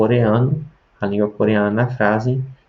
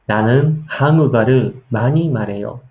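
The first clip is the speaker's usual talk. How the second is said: fast Korean; 4 dB louder, much faster than usual. Shown as a demonstration. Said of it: "você vai ficar ach- assustado".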